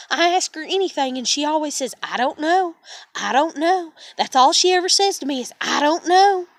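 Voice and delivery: rising mock complaint. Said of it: "then they literally are like".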